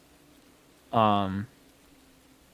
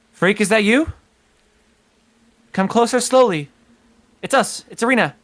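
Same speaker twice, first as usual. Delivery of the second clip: gentle calling; 9 semitones higher, 5 dB louder than usual. Acted. Calling to a hidden friend.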